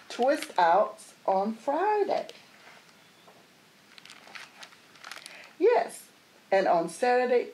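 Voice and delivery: put-on excited child. Jamila dreaming up a hairstyle for each weekday, loud and eager. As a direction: savour every hairstyle like a thrilled kid.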